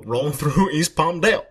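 lightly hammed-up president breaking into a laugh; Obama. President finishing his answer to an interviewer, mock-statesmanlike. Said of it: "Mister Obama, what do you like doing more".

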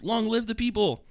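high-pitched battle cry, held back in volume; mock scream. Bomber's last words read aloud from the book, mock scream. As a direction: cry it out high like a rallying slogan. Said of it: "and screamed".

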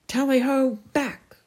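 high, loud hunting cry; shouting. A narrator's reading. Knight walloping the king from behind, shouting. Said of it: "shouted Sir Grummore".

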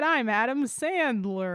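a light mumbly Sandler impression, half-laughing; Adam Sandler voice. Asked for another take, the speaker repeats her light Sandler impression. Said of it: "give me another take of your Adam Sandler voice".

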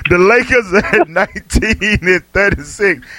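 slow, drawn-out readout through amusement; pointed record readout. Real, not acted. Host needling a co-host about the Lakers' record, pointed readout. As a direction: spell out the bad record slowly. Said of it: "why you gotta say it like that".

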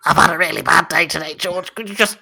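whiny pleading weirdo; a creep whining about his balls; creepy stranger voice. Acted. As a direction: beg like a creepy neighbour.

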